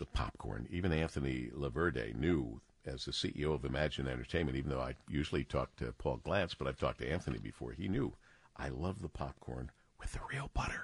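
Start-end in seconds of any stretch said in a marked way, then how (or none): 8.6-10.8 breathy whisper in a US presidential manner. Quoting a CEO about movie-theater popcorn: whispering like a US president. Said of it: "I'm whispering like a president".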